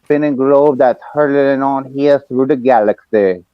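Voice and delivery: slow, grand wrestling promo voice; Dusty Rhodes impression. On the voice message, slow Dusty-style promo. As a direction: roll it out like a wrestling legend cutting a promo. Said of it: "Dusty-isms".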